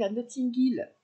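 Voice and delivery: Notting Hill in a self-mocking English accent; a light, hammy English accent. Shown as a demonstration. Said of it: "J'ai un super accent".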